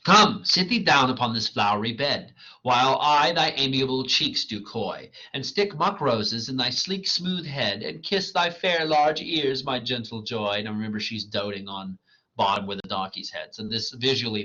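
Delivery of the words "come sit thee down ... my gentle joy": Titania. Acted. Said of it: "this is Titania".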